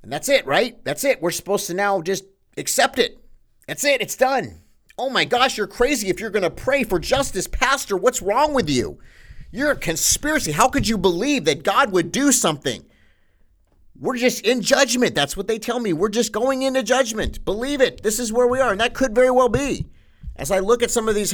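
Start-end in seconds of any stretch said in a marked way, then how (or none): 0.0-4.6 sarcastic. Acted. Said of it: "I'm being a little sarcastic today". 5.0-12.8 higher, mocking voice of the scoffers; sarcastic mimicry of critics calling the pastor crazy. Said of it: "I'm being a little sarcastic today". 14.0-19.9 sarcastic. Acted. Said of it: "I'm being a little sarcastic today".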